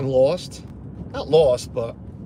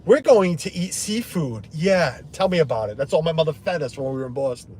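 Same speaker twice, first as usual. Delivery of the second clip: mock Madeleine showing off; 2 semitones higher, 4 dB louder than usual. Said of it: "she's gonna be like".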